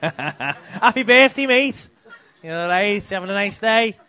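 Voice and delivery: loud, high birthday greeting; calling out. Real, not acted. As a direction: holler a greeting across the crowd. Calling out to birthday audience member.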